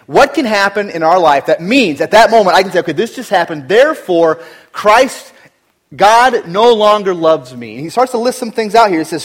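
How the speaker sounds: loud, rising sermon delivery; a pastor thundering the question at his church; preaching at full force. Acted. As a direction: preach it hard to the congregation.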